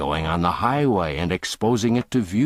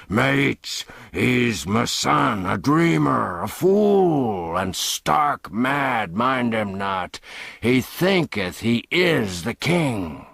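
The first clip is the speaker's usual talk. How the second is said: higher, mocking voice brushing off his son; scornful father; 4 semitones higher, slower than usual. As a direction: laugh off the boy as a madman. Father disowning son to the gang.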